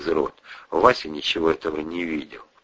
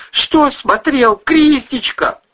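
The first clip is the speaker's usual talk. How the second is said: high, loud, slow pleading; babbling; 7 dB louder, slower than usual. Acted. Husband pleading with angry wife, slow high babble. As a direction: drag it out, confused and scared. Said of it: "лепетал Бонасюк".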